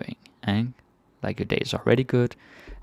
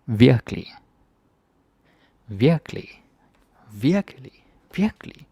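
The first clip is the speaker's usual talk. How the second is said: "Virkelig" climbing higher on each try; varied tones of Virkelig; 4 semitones higher, 3 dB louder than usual. Shown as a demonstration. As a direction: play with the pitch of "Virkelig".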